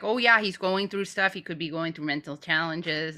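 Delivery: a light Canadian accent, mocking the excuse. Mocking sensitive Canadians who excuse the guy, light Canadian accent. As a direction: lightly imitate a Canadian making excuses for the man. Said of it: "That's a good Canadian accent".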